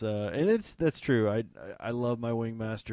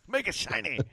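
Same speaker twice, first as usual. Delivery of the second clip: mock blingy voice; 10 semitones higher than usual. Mocking own bling taste.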